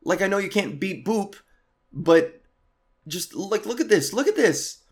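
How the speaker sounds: begging the guard to just look; pleading with security. Retold or imitated. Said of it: "I'm standing at the security gate like".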